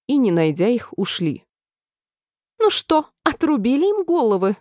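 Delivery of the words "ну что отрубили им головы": high, demanding call; impatient royal yell; queen yelling. A narrator's reading. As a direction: shout across at the soldiers. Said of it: "крикнула королева солдатам".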